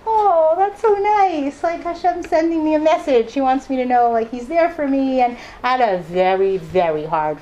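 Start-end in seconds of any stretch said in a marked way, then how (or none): 0.1-5.2 mock delighted. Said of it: "I'm like".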